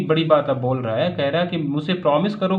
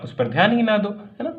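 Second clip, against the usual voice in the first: higher read-aloud roar; mock roar; 6 semitones higher than usual. Uncle shouting down the farmer's complaint, raised voice. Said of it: "फिर से मेरे uncle Khusro चिल्ला कर बोले".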